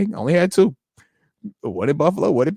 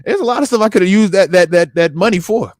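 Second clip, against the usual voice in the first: worked up; 5 semitones higher, 3 dB louder than usual. Retold or imitated. Retelling his own thinking about money.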